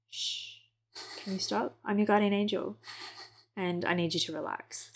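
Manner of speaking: hushed and soothing, barely voiced; calm her down like a guardian angel; soft hush. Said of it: "just be like".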